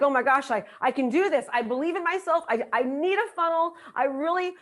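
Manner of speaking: a touch of giddy self-belief; excited. Acted. Attendee gushing to herself at the event, mildly excited. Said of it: "You're excited".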